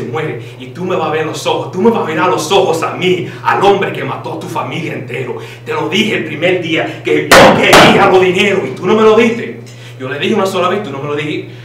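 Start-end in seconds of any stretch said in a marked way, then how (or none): 3.4-11.0 louder, angry yelling threat; mock threat. Fake teacher yelling about unpaid money. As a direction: bark it at the debtor. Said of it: "White Claw in Spanish is".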